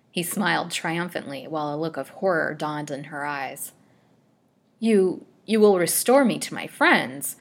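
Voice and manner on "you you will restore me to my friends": stammered, agitated plea; louder, faltering appeal; breathless agitation. A narrator's reading. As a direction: plead in mild breathless agitation. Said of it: "gasped in breathless agitation".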